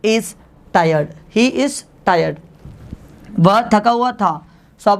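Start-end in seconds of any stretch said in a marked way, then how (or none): 1.3-2.4 slow, every word spaced for the class; slow teacher's model sentence; slow dictation. Shown as a demonstration. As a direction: spell it out slowly for students to repeat. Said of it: "तो आप कहेंगे he".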